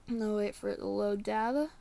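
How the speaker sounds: talking around a wad of gum; words slurred by chewing gum. Real, not acted. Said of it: "I got a piece of gum in my mouth".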